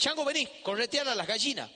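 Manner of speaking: put-on grandma ordering the kid around; grandma calling. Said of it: "mi abuela me dice".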